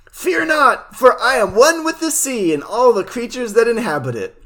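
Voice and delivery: high, grandiose proclamation; heroic yell. Acted. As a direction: declare it like a cartoon hero. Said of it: "He yells".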